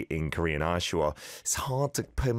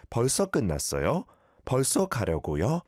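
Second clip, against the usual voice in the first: polite ending with 요 added: "끝났어요?" and "가려고요?"; polite form; 4 semitones higher, much faster than usual. Shown as a demonstration. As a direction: add "요" after "끝났어" and "가려고" as if to a senior. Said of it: "at least put a yor at the end".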